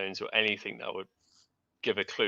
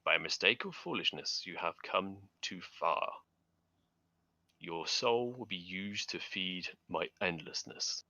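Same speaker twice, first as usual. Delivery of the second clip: dark whisper behind you; 4 dB quieter than usual. Acted. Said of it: "a voice from the darkness whispers with the dry rattle of death and malice".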